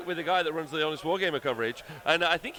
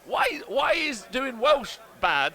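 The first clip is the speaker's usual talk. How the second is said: slow, high, laughing protest; laughing through the words; 8 semitones higher, 4 dB louder, much slower than usual. Real, not acted. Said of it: "laughing protest".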